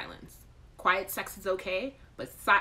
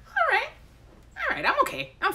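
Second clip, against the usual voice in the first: forced calm; 7 dB louder than usual. Acted. Reassuring herself, squeaky high.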